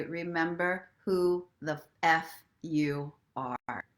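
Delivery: slow, sassy and spicy, leaning on the F; extra sassy. Shown as a demonstration. To listeners, the spicy version of the mantra, slow and sassy. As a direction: savour it slowly with sass. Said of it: "feeling extra sassy, saucy, spicy".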